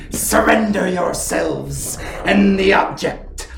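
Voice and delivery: slow, hissing villain voice; sly sticky chameleon. Acted. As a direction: drawl it out like a smug reptile admiral. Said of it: "the sound of a chameleon empire voice".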